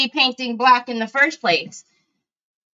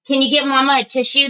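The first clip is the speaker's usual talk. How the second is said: usual speaking voice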